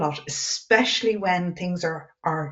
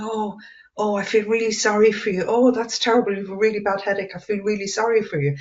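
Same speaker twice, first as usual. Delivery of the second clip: higher, fussing pity; sympathetic relative; 3 semitones higher, faster than usual. Retold or imitated. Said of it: "they were saying to me".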